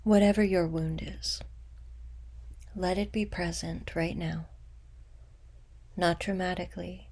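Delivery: unhurried meditation guide, long pauses between phrases; guided meditation. Acted. Guide leading listeners to meet an old wound with compassion, guided meditation. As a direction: guide them gently inward, letting phrases settle.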